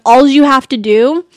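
Alls said loud with a z ending; added S. Shown as a demonstration. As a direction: hit "Alls" with its extra s. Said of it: "I have to add an S".

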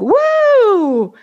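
high whoop then awed amazing; thrilled whoop. Retold or imitated. Ghost whooping after leaving his body, high thrilled cry. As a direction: whoop like after a wild ride.

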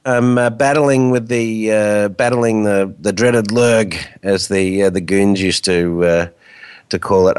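hoarse from the flu; croaky, sick voice. Real, not acted. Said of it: "I do have a bit of a croaky voice today".

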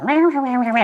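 high, growled rah rah rah; mock angry growl. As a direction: vent angry like a roaring beast. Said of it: "hot anger come up".

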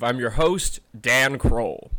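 low booming foghorn voice; deep foghorn boom on the name. Real, not acted. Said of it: "Why do I sound like a foghorn?".

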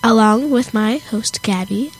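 blocked nose, a little weird; talking with a stuffy nose. Real, not acted. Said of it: "I have a stuffy nose".

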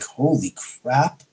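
soft, slow stunned aside; hushed amazement. Retold or imitated. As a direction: breathe it out in disbelief. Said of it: "I'm like".

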